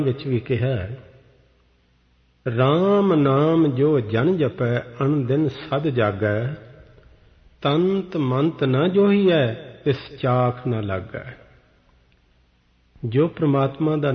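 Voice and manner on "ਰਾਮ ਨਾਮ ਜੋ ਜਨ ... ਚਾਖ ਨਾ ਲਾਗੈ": slow, measured reading of the holy verse; scripture recitation. Acted. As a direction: intone each line of gurbani slowly. Quotes scripture in the sermon. (ਹੌਲੀ ਹੌਲੀ ਗੁਰਬਾਣੀ ਦਾ ਪਾਠ)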